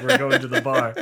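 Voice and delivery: loud, high, laughing shout; rowdy party call. Retold or imitated. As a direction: yell it like rallying the bar crowd. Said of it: "you're the one that's like".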